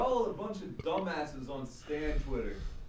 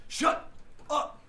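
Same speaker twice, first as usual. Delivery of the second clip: whisper-shout; 12 semitones higher, 6 dB louder than usual. Acted. Hushed then yelled.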